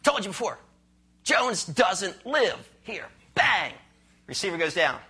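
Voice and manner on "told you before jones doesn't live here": a hint of irritation, slowing on the second line; lightly annoyed man on the phone; mildly disgruntled. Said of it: "This time disgruntled".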